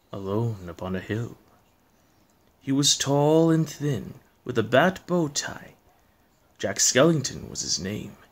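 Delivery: measured poem reading with pauses; storyteller reading verse; story narration. A narrator's reading. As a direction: recite it like a spooky bedtime tale.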